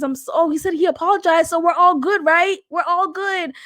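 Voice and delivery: mock sarcastic. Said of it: "people think".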